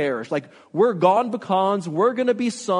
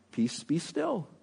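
calm command; 9 dB quieter, slower than usual. A narrator's reading. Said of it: "He said to the sea".

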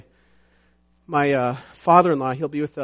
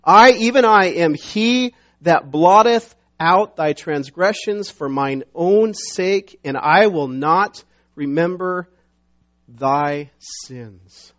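loud, slow scripture proclamation; weighty, measured declaration, easing down on "thy sins"; emphatic; 2 semitones higher, 7 dB louder, slower than usual. Acted. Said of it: "Very emphatic".

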